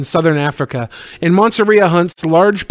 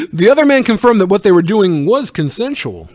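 laughing while reading; 3 semitones higher, 4 dB louder than usual. Real, not acted.

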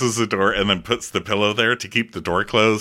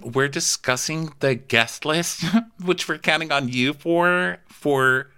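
condescending boss; 5 semitones higher than usual. Retold or imitated. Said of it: "And Jen says".

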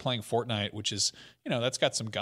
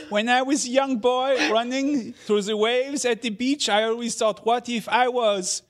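put-on higher, louder, slow grand French-accented presenter; mock Ubisoft announcer; 9 semitones higher, 8 dB louder, slower than usual. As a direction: ham up a pompous press-event pitch. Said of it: "doing impressions of, like, Ubisoft announcing stuff".

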